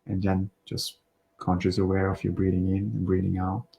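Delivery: calm, unhurried breathing guidance with pauses; relaxed meditation voice, slightly hushed, phrase by phrase; guided meditation. Real, not acted. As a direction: gently guide listeners through their breathing.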